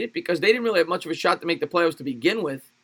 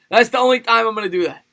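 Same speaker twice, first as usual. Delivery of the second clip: high put-on Chinese accent; mock Chinese accent; 5 semitones higher, 5 dB louder than usual. Puts on the requested accent once more.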